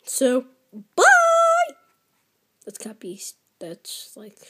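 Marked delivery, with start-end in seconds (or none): 1.0-1.8 high, loud sing-song goodbye; cheery bye. Real, not acted. Gamer signs off the video to viewers, cheery. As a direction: sign off brightly.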